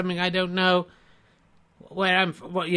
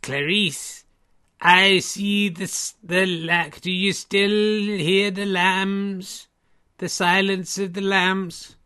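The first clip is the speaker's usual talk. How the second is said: Hannibal Lecter impression; slower than usual. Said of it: "Did you do any others".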